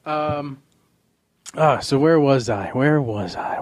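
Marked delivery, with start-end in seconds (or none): 2.7-3.6 mock whisper. Host repeats line whispered.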